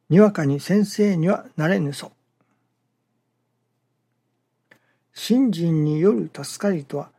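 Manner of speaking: measured, lilting recitation of a teaching; reading scripture aloud. Acted. Preacher reads the teaching to worshippers before commenting, measured recitation. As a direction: read the sacred text out evenly, phrase by phrase.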